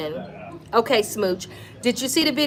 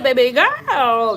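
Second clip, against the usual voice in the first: put-on louder, slowed "Baby girl" with the stress on "girl"; B Simone catchphrase; 2 semitones higher, 6 dB louder, slower than usual. Vlogger repeating B Simone's catchphrase to jog viewers' memory, slow and louder. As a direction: drawl "Baby girl" again like the famous catchphrase. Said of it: "She said".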